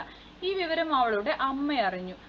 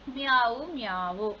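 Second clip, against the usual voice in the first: kitten's cry; slower than usual. Acted. Teacher voicing a crying kitten for the class, imitated meowing. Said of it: "കുഞ്ഞിപ്പൂച്ചയുടെ കരച്ചിലല്ലേ കേൾക്കുന്നത്".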